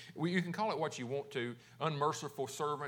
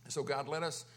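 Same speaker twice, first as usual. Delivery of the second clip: subdued, slightly lowered praying voice; prayer; 3 semitones lower than usual. Real, not acted. Pastor praying to God about forgiveness, in subdued prayer.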